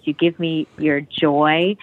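joy stretched and lifted; stress on joy. Shown as a demonstration. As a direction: lean into «joy» as a release. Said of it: "specific emphasis on the word joy".

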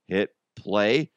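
ordinary talk, nothing marked

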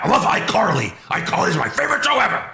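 gush, speeding up at the end; mock gushing fan. Boss praising his favorite show, mock gushing.

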